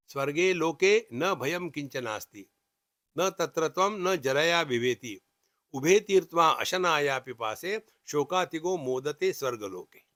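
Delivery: measured, lilting scripture recital; formal Sanskrit shloka delivery; Sanskrit verse recitation. Acted. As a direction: recite the verse with a rising and falling cadence.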